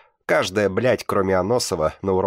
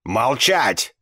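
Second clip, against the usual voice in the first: loud, higher furious yell; 6 semitones higher, 5 dB louder than usual. Acted. Teacher screams at the boys to shut up, loud. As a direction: bark silence at the class. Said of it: "завопила та".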